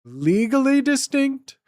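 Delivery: high, slow put-on voice; drawn out, silly legal disclaimer voice; catchphrase voice. Streamer drawling a silly catchphrase, high and slow.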